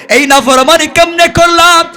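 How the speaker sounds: high, loud chanted plea of a sinner; performed lament on one high, sustained pitch; impassioned preaching lament. Acted. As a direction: cry out the confession in a ringing sermon chant.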